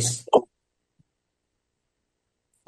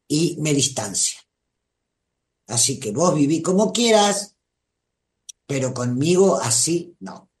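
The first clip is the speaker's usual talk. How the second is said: calm, firm and unhurried, no raised voice; calm firm boundary. Shown as a demonstration. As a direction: set the limit calmly, kindly but firmly. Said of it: "en este tono de voz diciendo".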